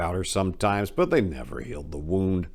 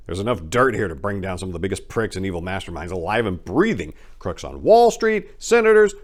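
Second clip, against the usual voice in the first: rising to loud, high passionate rallying; a young crook dreaming big, shouting his plan; fired-up young gangster; 5 semitones higher, 7 dB louder than usual. Acted. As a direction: rant louder and higher as the dream grows.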